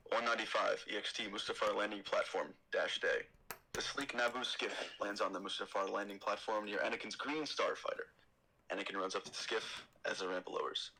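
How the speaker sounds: steady stage-direction read; screenplay read-aloud; script narration. Acted.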